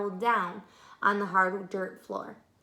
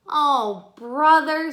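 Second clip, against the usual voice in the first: sighing; 5 semitones higher, 11 dB louder, much slower than usual. Acted.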